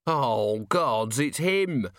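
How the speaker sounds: moaned dread, rising in pitch; dismayed moan. A narrator's reading. Thief recognising Carrot, moaning. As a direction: moan it as the realisation lands. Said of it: "moaned one of the men".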